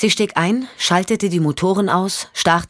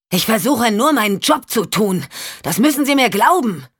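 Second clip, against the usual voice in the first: higher, earnest plea; Champ, pleading; 5 semitones higher than usual. Acted. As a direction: beg her to believe you.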